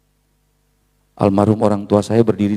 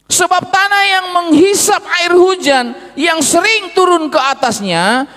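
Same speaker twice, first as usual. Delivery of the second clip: preaching at full force; 4 dB louder than usual. Acted. Preacher proclaims the Bible verse to the congregation, loud and high. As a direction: thunder the verse out to the church. Shouted scripture reading.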